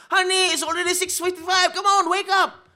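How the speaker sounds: high, loud, sing-song mommy calling; sweet mother voice. Retold or imitated. Mother calling her son out of bed, high and sing-song. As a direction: call the sleepy child up high and sweet.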